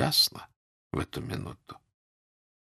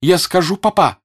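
firm, higher voice growing louder; determined, raised-voice warning; resolute; 6 semitones higher, 5 dB louder than usual. A narrator's reading. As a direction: lay down the ultimatum decisively. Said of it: "решительно сказала Соня".

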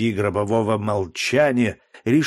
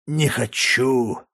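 slow slurred не хочу; blackout drunk; slower than usual. A narrator's reading. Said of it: "еле ворочая языком". (пьяное медленное не хочу)

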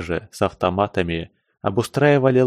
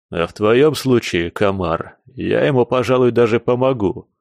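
шикая с угрозой. Acted. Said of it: "шикнул Клок на Пескуна".

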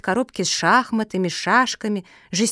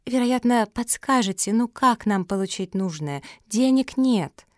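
pleading, raised at the ends; wheedling whine; 3 semitones higher than usual. Acted. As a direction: beg with a whining edge. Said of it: "законючила Антонина".

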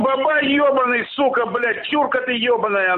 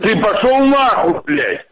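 angry shout; 2 semitones lower, 4 dB louder than usual. Real, not acted. Phone quarrel, swearing at caller.

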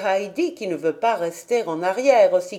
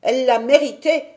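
put-on quick, louder boy's grumble; grumbling; 4 semitones higher, 6 dB louder, faster than usual. A narrator's reading. Pierre insists the goat deserved it, grumbling. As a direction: grumble it back in self-defence. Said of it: "grogna Pierre".

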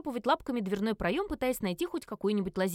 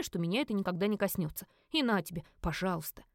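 ordinary talk, nothing marked

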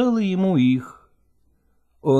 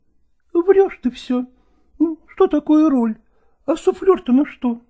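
put-on higher, teasing young woman's voice; young actress Nastina; 11 semitones higher than usual. A narrator's reading. Actress teases Lagorsky about learning his role, higher teasing voice. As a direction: tease him like a doting actress.

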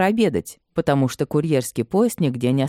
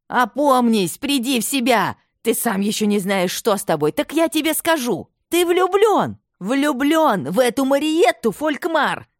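much higher, rising furious mother; outraged outcry; 10 semitones higher than usual. A narrator's reading. Mother cries out at her son in fury, much higher. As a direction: hurl it at him to strike him down. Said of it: "Она выкрикнула последние слова".

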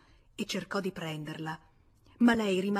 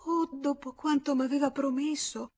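stammering protest; 7 semitones higher, 3 dB louder than usual. Acted. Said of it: "Lei balbettava".

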